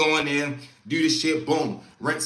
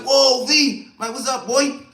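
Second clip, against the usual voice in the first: higher, louder happy hello; excited greeting; 7 semitones higher, 7 dB louder than usual. Retold or imitated. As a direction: greet an old friend warmly. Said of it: "So he like".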